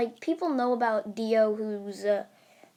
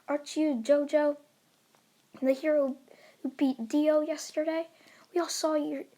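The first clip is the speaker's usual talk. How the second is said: higher-pitched fan voice; awed fangirls; 4 semitones higher than usual. Acted. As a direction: ask in a raised voice, as a fan. Scared girls address hero.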